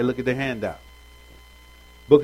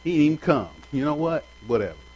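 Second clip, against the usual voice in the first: dismissive pout; 3 semitones higher, faster than usual. Retold or imitated. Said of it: "Mary was like".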